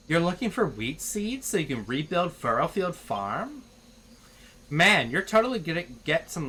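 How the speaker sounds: lightly voiced Valley Girl chatter; mild Valley Girl upspeak. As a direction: chat with the builder like a teen. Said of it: "speaking in this freaking accent".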